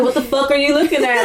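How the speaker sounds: quick, lightly aggressive retort; imitated aggressive challenge. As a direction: imitate a friend snapping at bullies, no real anger. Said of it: "He was aggressive".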